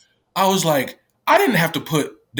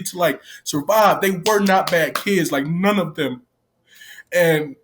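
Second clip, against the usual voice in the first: tearful, higher pitched voice; crying; 4 semitones higher than usual. Real, not acted. Staff member tearfully defending the kids to viewers. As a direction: hold back real tears. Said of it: "y'all see me cry right now".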